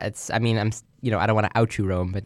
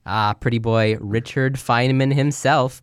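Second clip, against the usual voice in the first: flirty teasing dating host; slower than usual. Pretend. Dating show bachelor reveal.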